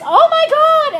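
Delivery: high, loud imitation of a scandalized gasp-shout; mock shocked shriek. Fan imitating the actress who misheard boots as boobs, shocked shriek. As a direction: shriek it as the offended star. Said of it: "she went like this".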